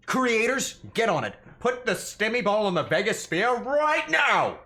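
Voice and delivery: loud hyped call to action; excited shouting. Real, not acted. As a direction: yell it at the creators. Hyped demand to creators.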